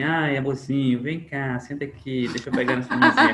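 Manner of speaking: sweet, coddling caregiver voice, half laughing; mock the overly sweet nurse; mock sugary caregiver. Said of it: "as pessoas pensam que humanização em saúde é assim".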